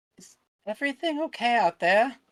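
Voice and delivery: very high, small, squeaky mouse-like voice. Game master voicing a bunny-folk character calling out, mousy voice of Timid. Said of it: "the kind of mousy voice of uh, Timid".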